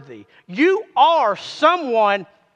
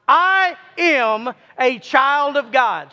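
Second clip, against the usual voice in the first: slow group declaration; slower than usual. Shown as a demonstration. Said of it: "Let's all say it again".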